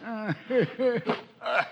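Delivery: grunting, puffing effort with a strained chuckle; straining climb. Acted. Silver struggles over the stockade wall, grunting with effort. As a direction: heave yourself over a wall on one leg.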